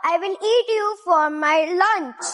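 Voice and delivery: mild troll voice. Acted. Troll threatens goat.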